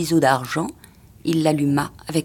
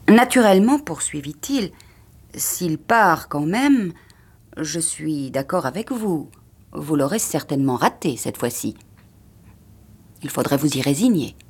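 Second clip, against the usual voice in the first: taunting husband. Acted. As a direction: savor every word of it. Husband taunts her slowly.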